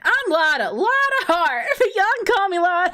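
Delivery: put-on Southern accent. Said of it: "Southern accent localization".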